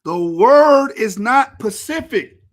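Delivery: loud, slow, exasperated correction; real frustration. Real, not acted. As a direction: hammer it out slowly in frustration. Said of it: "this is really frustrating me".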